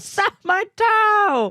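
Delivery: shrill, pained, very high yell, "toe" stretched out. Acting out how he yells after stubbing his toe, retelling his angry yell. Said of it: "he stubs his toe and yells".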